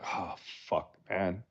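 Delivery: leiser geflüsterter Fluch, kaum hörbar; whispered curse. Retold or imitated. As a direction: hauch es resigniert vor dich hin. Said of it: "You're like".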